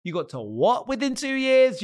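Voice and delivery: high, slow astonished question; mock disbelief. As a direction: act stunned at the speed. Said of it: "they're like".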